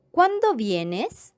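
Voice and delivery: "¿Cuándo vienes?" slow, rising at the end; question intonation. Shown as a demonstration. Teacher modelling a direct question, slow with a rising tune. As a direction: ask it clearly, voice climbing on "vienes". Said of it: "interrogativas directas".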